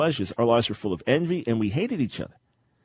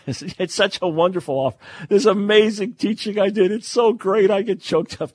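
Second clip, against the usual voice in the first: joking self-praise; 9 semitones higher, 4 dB louder than usual. Real, not acted. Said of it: "I wasn't getting choked up".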